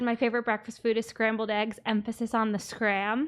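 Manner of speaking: ordinary talk, nothing marked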